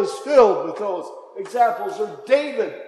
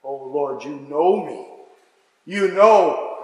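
a pleading cry rising on the last "You know"; heartfelt cry; 4 semitones lower, 3 dB louder, slower than usual. Acted. Peter pleads with the Lord, crying out from the heart. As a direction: let Peter's heart break through. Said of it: "you can hear the cry of the heart".

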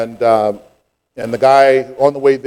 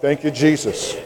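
soft relieved thanks; 6 dB quieter than usual. Retold or imitated. Relief after release.

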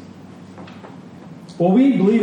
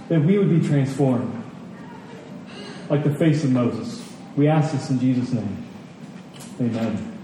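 prayer. Acted. Pastor praying for the congregation before the message, hushed and earnest.

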